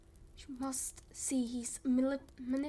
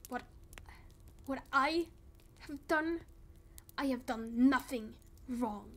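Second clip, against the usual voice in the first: angry denial. Acted.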